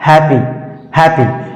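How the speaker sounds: "हैप्पी" with one short p; single p pronunciation. Shown as a demonstration. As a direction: say "हैप्पी" without doubling the p. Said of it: "इसको सही तरीके से पढ़ेंगे हैप्पी". ("हैप्पी" एक ही प के साथ)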